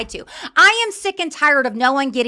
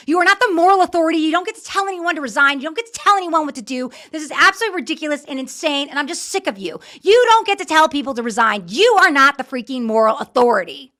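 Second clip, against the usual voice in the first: angry; 2 semitones higher, 3 dB louder than usual. Real, not acted. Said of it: "Because I'm angry".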